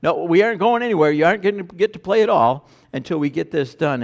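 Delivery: put-on a parent refusing to let the kids go play; firm parent. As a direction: lay down the law to the kids.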